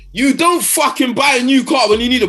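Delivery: real exasperated outburst; angry rant. Real, not acted. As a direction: let the frustration boil over. Furious rant about the team.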